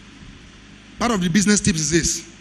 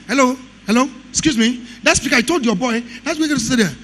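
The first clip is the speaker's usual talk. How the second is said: higher mock voice of a pushy woman; 5 semitones higher than usual. Vendor telling the engineer where to sit, higher mock voice. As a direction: imitate her brisk demand, pitched up. Vendor confronting him again.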